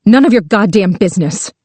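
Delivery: barked. Acted. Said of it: "Pauline barked".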